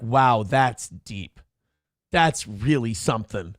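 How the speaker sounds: slow, low, impressed; mock awe. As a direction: savour it as if profoundly impressed. Mimics an impressed listener.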